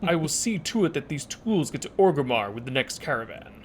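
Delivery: guttural rough orc voice; gruff orc quest giver; orc impression. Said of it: "how was my orc impression".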